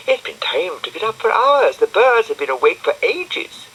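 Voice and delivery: put-on high bright little girl voice; high-pitched girl character; Florence's voice. A narrator's reading. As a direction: lift into a girlish squeak for Florence.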